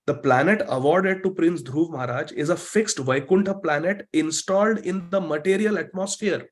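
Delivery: slow, measured reading to a class; deliberate teaching recitation with spaced phrases; scripture read aloud. Real, not acted. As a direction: read the sacred text out phrase by phrase. Reads English commentary to the class.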